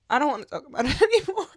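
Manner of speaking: high, rushed, tearful plea; crying. Real, not acted. Overwhelmed by grandpa's memory, crying. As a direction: break down mid-sentence. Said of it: "now I'm crying about".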